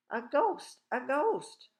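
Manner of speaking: high, loud alarm cries; panicked yelling. A narrator's reading. Townspeople spot a floating dressing gown, panicked yelling. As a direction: yell it out in panic. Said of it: "everybody yelling".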